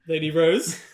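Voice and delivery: tentative questioning call with a rise. Acted. Guards expecting Lady Rose at the carriage, questioning. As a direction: call her name as a question. Guards look for missing princess.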